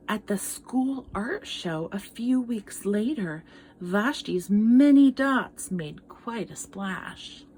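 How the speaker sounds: gentle read-aloud storytelling; story narration. Acted. Teacher reading a picture book to children, storytelling voice. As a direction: tell it like a picture book to kids.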